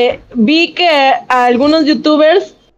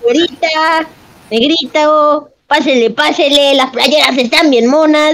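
hyped fairground barker. Pretend. Market vendor calling buyers.

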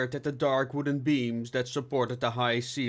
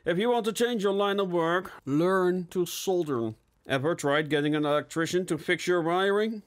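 higher, musing philosophical tone; 7 semitones higher than usual. A narrator's reading. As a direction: muse on it like a sage. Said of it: "Bixby began philosophically".

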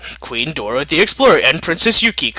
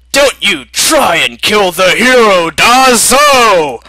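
loud, higher shouted victory; battle cry; 4 semitones higher, 5 dB louder, slower than usual. Acted. America shooting the villain, shouted battle cry. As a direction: roar like an action hero.

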